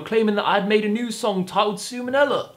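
badly faked British pop star accent. YouTuber reads AI reply, awful attempt at star's British accent. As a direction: fumble through a celebrity's British accent. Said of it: "This accent's awful".

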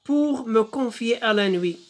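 slow, measured verse reading; poem recitation. Shown as a demonstration. Teacher reads the poem to pupils, slow poem recitation. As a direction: draw the line out like verse.

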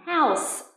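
"house" with the final s held audibly; clear final s. Shown as a demonstration. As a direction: finish "house" on a clear hissing s sound. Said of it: "phải có s".

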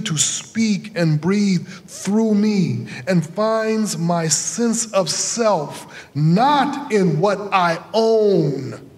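measured, solemn sermon delivery; formal sermon reading. Acted. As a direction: preach it slowly and gravely.

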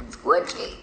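low, soft whispered word; playful whisper. Real, not acted. Describing the mini donut to friends, whisper. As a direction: whisper the silly word by itself.

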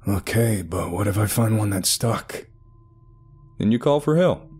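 earnest, encouraging doctor; therapist voice. Acted. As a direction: coax him gently but firmly. Doctor persuading patient.

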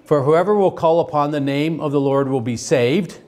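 steady, measured Bible reading to the class; scripture reading. Acted. Teacher reading Romans aloud to the class, measured. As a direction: read the verses out evenly to the class.

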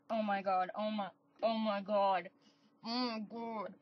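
hushed awe. Real, not acted. Hushed disbelief at a find.

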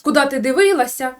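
half-hearted imitation of shouting at mom; mock yelling at mother. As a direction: nag her like a son telling off his mother. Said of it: "на неї орати".

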